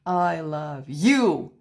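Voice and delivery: slow, with the last word "you" hit hard; mock punched ending. Shown as a demonstration. Teacher mocks a phrase accented at its end, "you" punched. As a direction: land a jab on "you" at the very end. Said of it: "Like you punch the end of the phrase".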